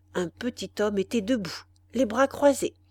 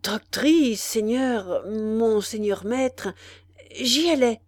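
terrified stammer; 2 semitones higher, slower than usual. Acted. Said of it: "essaya d'articuler quelques paroles".

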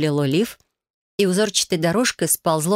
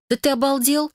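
high, stunned gasp of outrage; gasping disbelief; 9 semitones higher than usual. A narrator's reading. Heroine gasps at Lucian's outrageous price, high and stunned. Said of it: "ахнула я".

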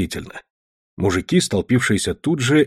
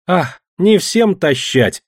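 playful; 7 semitones higher, much slower than usual. A narrator's reading. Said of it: "сердцем, но игриво отвечала Дуняша".

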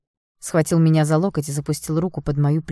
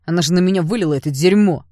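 louder indignant shout; outraged yell; 2 semitones higher, 7 dB louder than usual. Acted. Blond yells to Ignat that she poured cocoa on him, loud and outraged. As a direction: yell to justify yourself. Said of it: "заорал блондин".

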